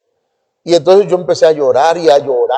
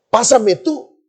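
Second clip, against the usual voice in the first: higher-pitched retold plea; pleading prayer; 7 semitones higher, much slower than usual. Young man begging God to move him, pleading. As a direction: lift the pitch as you beg. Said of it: "yo dije".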